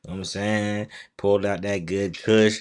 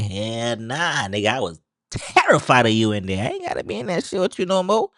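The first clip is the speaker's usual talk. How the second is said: voicing Nathan; 3 semitones higher, 6 dB louder than usual. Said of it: "Nathan like".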